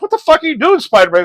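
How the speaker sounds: high, loud panicked yell; Black Cat yelling at Spider-Man, loud and high. Retold or imitated. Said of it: "and she's like".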